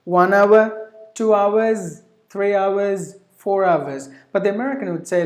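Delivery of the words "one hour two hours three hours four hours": "hour" as OW-uh in each count; British OW-uh, OW-uhz for "hour", "hours"; British pronunciation. Shown as a demonstration. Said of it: "The British".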